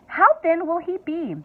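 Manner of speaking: mother anxiously asking Wonka. A narrator's reading. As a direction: ask with mounting worry. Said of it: "asked Miss T V anxiously".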